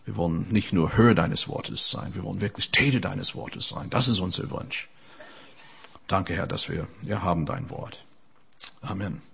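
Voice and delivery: a hushed, devoted prayer. Acted. Prays aloud after announcing prayer.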